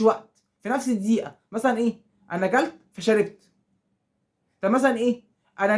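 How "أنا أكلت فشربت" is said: "أكلت فشربت" run together without a break; snappy back-to-back example; quick, no pause. Shown as a demonstration. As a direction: say "فشربت" right after "أكلت" to show speed. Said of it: "حاجة بتحصل بسرعة".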